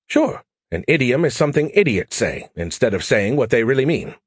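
brash AI pestering Joe for help; cocky alien AI. Acted. Skippy's smug definition.

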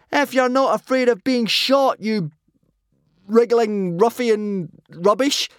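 high, loud taunt; high-pitched defiant yell. A narrator's reading. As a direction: shout insults to provoke them. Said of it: "yelled Hiccup".

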